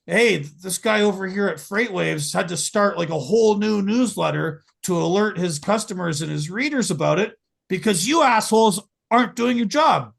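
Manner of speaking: Russian-free exasperated rant, rising to a shout; building angry rant. Retold or imitated. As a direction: start annoyed, end yelling at them. Mock rant at the regulators.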